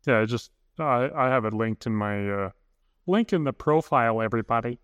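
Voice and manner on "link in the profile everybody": bright influencer sign-off. Pretend. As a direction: talk like a social media influencer. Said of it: "Your influencer voice?".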